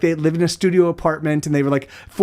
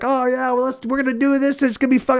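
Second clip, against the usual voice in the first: mock high enthusiasm; 7 semitones higher than usual. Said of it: "you're like".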